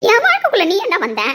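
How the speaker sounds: high, loud furious retort; angry shout. Acted. Wife shouting back at her husband, furious. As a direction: hit back at him hard.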